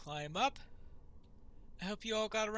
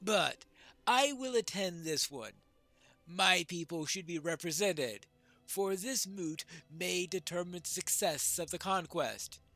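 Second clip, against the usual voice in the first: measured, declaimed pledge; lightly voiced dwarf lord; 5 dB louder than usual. Dwarf pledges attendance and his axe, lightly declaimed. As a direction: lightly act a dwarf giving his word.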